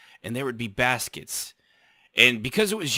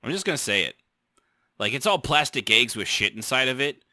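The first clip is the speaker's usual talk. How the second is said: usual speaking voice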